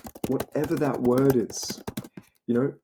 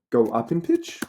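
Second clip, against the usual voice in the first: slight upward question rise; rising pitch. Shown as a demonstration. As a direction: lift the voice up at the end like a question. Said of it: "Did you see how I just went up in pitch?".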